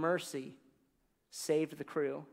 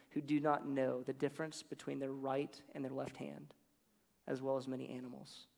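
tender reading. Acted. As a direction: let it fade gently. Reads God's closing words.

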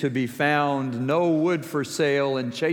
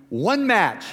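high, mildly boastful quote; imitated pride; 7 semitones higher, 4 dB louder than usual. Preacher quoting friend's fire-starting feat, a bit proud. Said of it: "He was a bit proud of himself".

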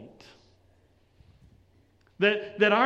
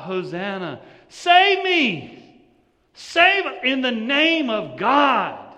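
crowd crying out; 3 semitones higher, 8 dB louder than usual. Retold or imitated. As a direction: plead loudly, then let it fall to a prayer. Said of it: "the crowd is crying out".

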